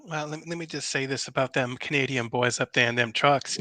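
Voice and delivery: a hint of a campy Southern politician; Lindsey Graham voice. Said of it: "request for the Lindsey Graham voice".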